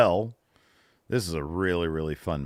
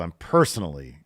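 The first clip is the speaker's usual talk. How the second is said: louder mock indignation; all-caps emphasis; 6 dB louder than usual. Host reading a listener's complaint aloud, mock-loud. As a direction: read it out as if typed in capitals. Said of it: "all caps, mind you".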